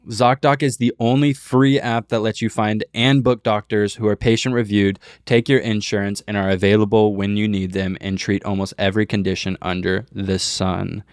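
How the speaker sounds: upbeat sponsor read voice. Acted. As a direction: read it like a podcast ad.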